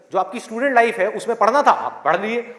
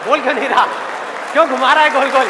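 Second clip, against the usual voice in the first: impatient; 4 semitones higher, 5 dB louder, faster than usual. Pretend. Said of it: "सबके अंदर से आवाज आ रही".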